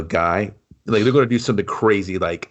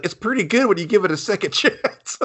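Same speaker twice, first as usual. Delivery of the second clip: much higher, dopey, laughing through; high dopey mock voice; goofy high voice; 10 semitones higher than usual. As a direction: play the dim glue-eater. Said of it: "He's like".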